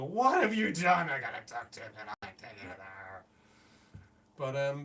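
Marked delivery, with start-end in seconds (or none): 0.0-2.7 panicked shout. Pretend. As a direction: cry out in dismay. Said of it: "he's left trying to go".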